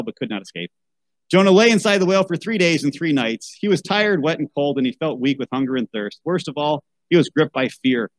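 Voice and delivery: put-on reading a picture book aloud to children; story narration. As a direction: tell it like a bedtime Bible story.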